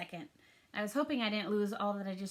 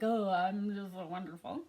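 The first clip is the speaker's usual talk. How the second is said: bragging; 3 semitones lower than usual. Retold or imitated. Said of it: "That's like bragging".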